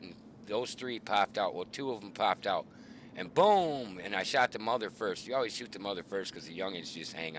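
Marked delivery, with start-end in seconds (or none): 3.3-4.0 higher, louder drawn-out boom; imitated gunshot. Hunter telling Charlie of his first shot, imitated gunshot. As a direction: punch out a rifle-shot boom.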